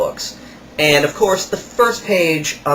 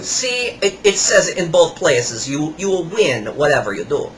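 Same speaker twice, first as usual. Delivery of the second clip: lightly voiced flattering seller; imitating the salesman; 2 semitones higher than usual. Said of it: "And he shows me".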